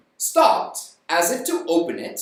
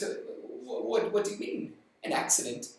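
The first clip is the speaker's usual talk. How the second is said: panicked; 2 semitones higher, 8 dB quieter than usual. Acted. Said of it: "Missus White began feeling panicked".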